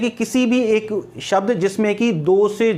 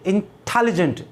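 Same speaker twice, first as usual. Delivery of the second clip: "इंटेलिजेंट" with extra force on the टे; stress on the second syllable. Shown as a demonstration. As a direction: punch the टे in "इंटेलिजेंट". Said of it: "इस जगह जोर दिया". ("इंटेलिजेंट" में टे पर ज़ोर देकर)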